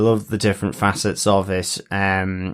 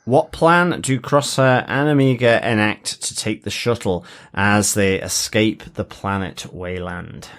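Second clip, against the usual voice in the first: lightly announced quiz question; quiz master. Acted. Host putting the episode's question to fellow quizzers, quiz master. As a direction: present it like a quiz host, measured.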